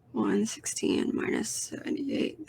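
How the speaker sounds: slow, quiet self-talk; thinking aloud. Real, not acted. Vlogger doing mental maths to themself, quietly thinking aloud. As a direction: murmur it slowly while working out the sum.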